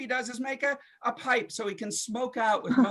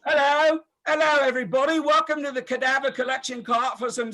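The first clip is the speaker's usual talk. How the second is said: plague-era comedian; 4 semitones higher than usual. Pretend. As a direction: hail the crowd like a medieval comic. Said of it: "they probably had to do it something like this".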